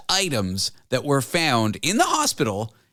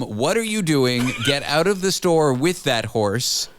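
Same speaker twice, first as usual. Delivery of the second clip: stern staff order; slower than usual. Retold or imitated. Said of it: "the staff said to him".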